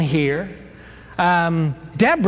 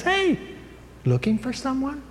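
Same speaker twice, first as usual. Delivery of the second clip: a high, sing-song call out to a passing rider; high cheery call; 9 semitones higher, 5 dB quieter than usual. Retold or imitated. Jael calling out to Barak on his horse, high and cheery. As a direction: sing it out sweetly, innocently.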